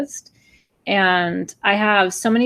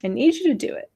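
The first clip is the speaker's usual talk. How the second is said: higher, tearful pleading; near tears; 5 semitones higher than usual. Real, not acted. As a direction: hold back tears while asking. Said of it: "and I'm gonna cry".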